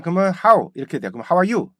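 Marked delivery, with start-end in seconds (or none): 0.4-0.7 "how" begun with an open 하; Korean-style how. Shown as a demonstration. Teacher shows the mistake of starting with 하, Korean-style "how". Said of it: "how를 하로 시작하잖아요". 1.3-1.7 "How are you?" begun with open 하우, raised pitch; Korean-style mispronunciation. Shown as a demonstration. Teacher shows what a wrong how leads to, Korean-style "How are you?". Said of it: "이렇게 되고요".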